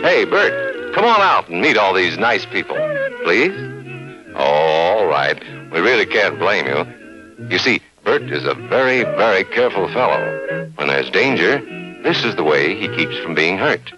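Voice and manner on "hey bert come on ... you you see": ordinary talk, nothing marked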